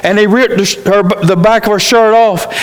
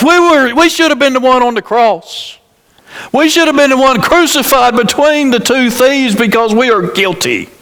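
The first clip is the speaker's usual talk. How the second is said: higher, impassioned; fervent preaching; 5 semitones higher than usual. Real, not acted. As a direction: preach it out full. Preaching climax.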